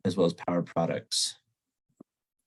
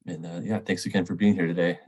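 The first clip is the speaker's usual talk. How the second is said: stuffy nose from a cold; nasal voice. Real, not acted. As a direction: talk through a blocked, nasal nose. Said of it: "my nasally voice".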